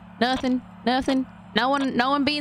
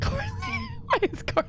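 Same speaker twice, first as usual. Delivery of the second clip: laughing; 5 dB quieter than usual. Real, not acted. Laughing at Carly's mistake.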